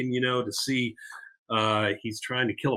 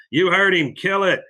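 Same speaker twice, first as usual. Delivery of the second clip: pushy father's command; 6 semitones higher, 5 dB louder than usual. Retold or imitated. Father pushes son to shoot.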